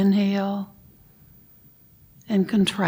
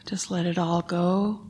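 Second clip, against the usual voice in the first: whispering; 4 dB quieter than usual. Acted. Breathing cue in meditation.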